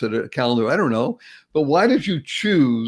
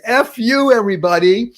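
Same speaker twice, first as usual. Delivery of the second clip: playful proclamation; 7 semitones higher, 4 dB louder than usual. Shown as a demonstration. Host shows listeners the greeting, playful proclamation. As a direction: call it out high and cheeky to everybody. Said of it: "Point your finger and says".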